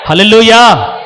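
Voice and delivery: హల్లెలూయా cried out loud; shouted hallelujah. Real, not acted. Preacher rousing the church with a loud hallelujah.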